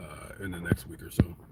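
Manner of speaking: soft, unvoiced whisper.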